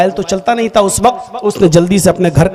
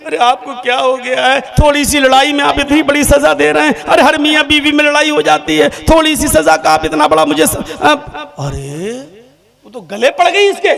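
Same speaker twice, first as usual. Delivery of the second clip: mock crying; 5 semitones higher than usual. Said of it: "अब वो रो के कहती".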